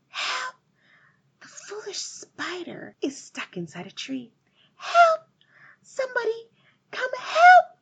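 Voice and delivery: high, loud calls for help; crying for help. A narrator's reading. Girl calls out to nobody about the stuck spider, shouting high. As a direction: holler for someone to come. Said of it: "She cried for help".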